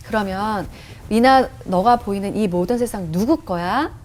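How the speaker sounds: lightly voiced patient questioner; Holy Spirit. The Spirit asks whose the world is, calm lightly acted voice. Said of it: "이런 질문을 하셨어요".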